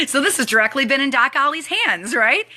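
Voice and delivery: words through real laughter; laughing while talking. Real, not acted. Telling viewers about the gift, laughing as she speaks. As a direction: keep laughing as you speak.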